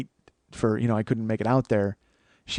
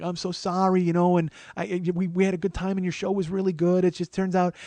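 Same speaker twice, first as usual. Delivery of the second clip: higher-pitched apologetic Wisconsin woman; Wisconsin accent; 5 semitones higher than usual. Retold or imitated. Old schoolmate hugging comic and apologizing, Wisconsin accent. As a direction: gush apologies with a Wisconsin lilt. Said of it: "she's like, very Wisconsin".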